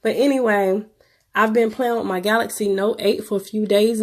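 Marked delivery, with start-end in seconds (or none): 0.0-2.7 sick, congested voice; talking through a blocked nose; stuffy nose. Real, not acted. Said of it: "Y'all gotta excuse my voice, I'm sick".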